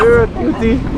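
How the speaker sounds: high cooing dog talk. Real, not acted.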